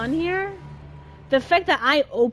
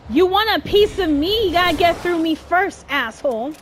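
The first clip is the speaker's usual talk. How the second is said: mock taunt; 4 semitones higher, 3 dB louder than usual. Real, not acted. Taunting an enemy while driving.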